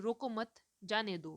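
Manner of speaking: clear break following रोको मत. Showing how pauses change meaning in speech: pause after 'रोको मत'. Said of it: "रोको मत के बाद मैं जो विराम ले रही हूँ".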